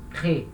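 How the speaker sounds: "crée" as one short syllable; silent final E. Shown as a demonstration. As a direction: drop the weak E ending of "crée". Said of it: "não vai ser pronunciado".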